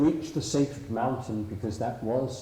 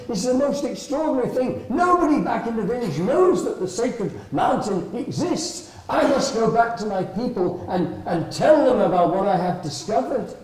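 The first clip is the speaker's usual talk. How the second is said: excited mouse; 9 semitones higher, 6 dB louder than usual. Acted. Mouse eager to tell people.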